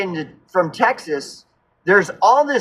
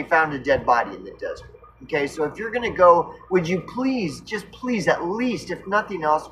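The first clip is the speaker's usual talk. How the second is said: pleading. Retold or imitated. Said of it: "And so I said".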